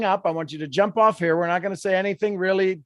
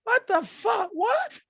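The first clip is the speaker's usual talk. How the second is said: much higher, disbelieving exclamation; startled outburst; 14 semitones higher, 4 dB quieter, slower than usual. Real, not acted. Host squeals in disbelief at choking on her own spit. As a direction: yelp in shocked disbelief.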